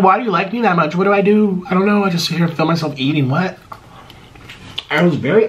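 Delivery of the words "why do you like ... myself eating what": a touch higher, bemused disbelief; retold bewilderment. Vlogger recalling fans bringing gifts, mildly bemused. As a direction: replay your own baffled reaction. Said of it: "I'm like".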